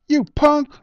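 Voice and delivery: high, loud angry shout; angry yell. A narrator's reading. Young man yells angrily at the closing elevator doors. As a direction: spit the insult out furiously. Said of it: "he heard the guy yell".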